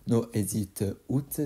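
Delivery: song title in a self-mocking English accent; a French speaker trying an English accent. Shown as a demonstration. Vlogger naming a Rocky song, in an English accent. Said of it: "Désolé pour mon accent anglais qui est vraiment dégueulasse".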